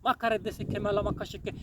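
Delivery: softly chanted syllables, praying in the spirit; speaking in tongues. Real, not acted. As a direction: pour out unknown words in prayer. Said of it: "ये आत्मा में मैं बोल रहा हूँ".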